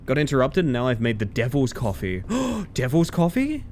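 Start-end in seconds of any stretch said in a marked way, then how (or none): 2.3-3.6 gasped, slower, higher echo of the words; surprised gasp. Real, not acted. Friend hearing about the devil's coffee, gasping in surprise. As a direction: catch your breath and echo it back in disbelief.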